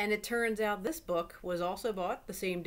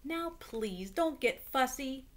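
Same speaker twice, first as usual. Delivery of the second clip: lightly voiced daddy; 4 semitones higher, slower than usual. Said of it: "said her daddy".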